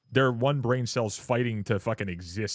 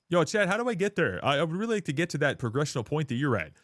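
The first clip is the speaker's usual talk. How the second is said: higher-pitched imitation of an eager chatter; lightly voiced chatter; 5 semitones higher than usual. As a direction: read it as a chatter's question, pitched up. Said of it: "Chatter says".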